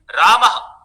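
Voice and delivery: रामः ending in an audible breathy "ha" echo; visarga after a. Shown as a demonstration. Teacher giving students an example of visarga, रामः ending in echoed "ha". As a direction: sound the final visarga of रामः as "ha". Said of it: "अकार के बाद में विसर्ग सुनाई दे रहा है".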